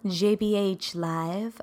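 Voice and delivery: slow, deliberate radio host intro; mock radio announcer welcome. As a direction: announce it like a DJ on air. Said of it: "It's my radio voice".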